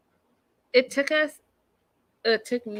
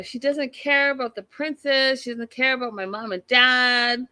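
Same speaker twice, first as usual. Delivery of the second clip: lightly imitated upset, a bit higher; mock freak-out; 4 semitones higher than usual. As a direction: mimic her complaint, stretching it into a mild whine. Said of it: "like, freak out".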